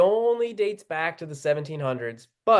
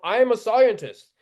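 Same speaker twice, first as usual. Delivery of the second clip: higher mock boast, falling at the end; mock self-important claim; 5 semitones higher, 4 dB louder than usual. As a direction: imitate an expert pulling rank. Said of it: "and the occasional".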